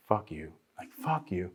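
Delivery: low, soft mock grumble; deep quiet envious "fuck you"; grumbling jealous friend.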